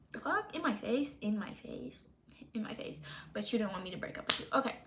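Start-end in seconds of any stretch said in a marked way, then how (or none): 0.1-1.1 higher, rising disbelief on "In my face?"; incredulous question. Retold or imitated. Retelling the boyfriend texting in front of her: incredulous rising "In my face?". 1.2-3.0 "In my face." breathed as a soft, voiceless whisper. Retold or imitated. Retelling the boyfriend texting in front of her: stunned whisper.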